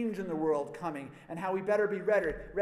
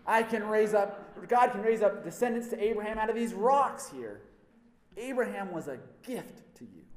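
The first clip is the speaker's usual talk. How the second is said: loud, rebuking harangue; John berating the crowd who came to be baptized, angry; angry prophet; 4 semitones higher, 5 dB louder than usual. Acted. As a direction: tear into the crowd for their complacency. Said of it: "he's so angry".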